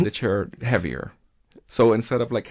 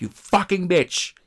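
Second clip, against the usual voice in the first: retold scolding; 5 semitones higher, 5 dB louder than usual. Scolding coworker.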